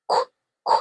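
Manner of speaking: "qu, qu" as two short voiceless kwuh bursts; Q sound. Shown as a demonstration. Teacher clearing up confusing Q, Q sound. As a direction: sound out "qu" alone, twice. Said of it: "It is actually".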